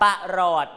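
"ประหลอด" said as pa-rot, no r in the first syllable; corrected syllable split. Shown as a demonstration. Teacher modelling the word for pupils, "ประหลอด" as two clear syllables, pa-rot. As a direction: split "ประหลอด" into short pa, then long rot. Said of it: "มันแค่ปะเดียว ไม่ใช่คำควบกล้ำ".

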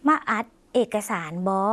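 slow, falling at the end; slow Lao demo. Shown as a demonstration. Teacher repeats the Lao sentence for viewers, slow and falling. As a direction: say มาอัดเอกสารบอ slowly, with the final บอ falling. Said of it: "จำประโยคนี้ได้ไหมคะ".

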